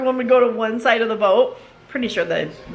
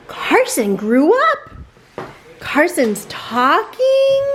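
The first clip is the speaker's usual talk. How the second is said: gushing quote; 5 semitones higher, much slower than usual. Retold or imitated. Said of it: "and they said".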